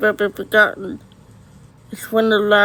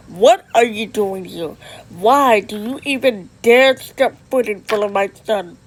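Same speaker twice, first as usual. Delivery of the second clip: angry; 4 dB louder than usual. Acted. Father confronts intruding mother.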